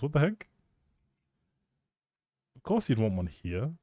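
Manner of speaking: ordinary talk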